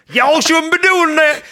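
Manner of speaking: high, slow Mississippi drawl; exaggerated southern scold, drawn out; southern accent. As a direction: shame them in a hammed-up southern accent. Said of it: "like, a southern accent".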